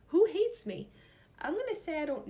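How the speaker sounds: laughing through the words; high, loud nervous laugh. Real, not acted. Laughing at the awkward question.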